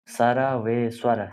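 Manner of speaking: सर्वेश्वर drawn out slowly, syllable by syllable; teacher lingering on सर्वेश्वर for students; slow pronunciation. Shown as a demonstration. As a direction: stretch सर्वेश्वर out so every sound is clear.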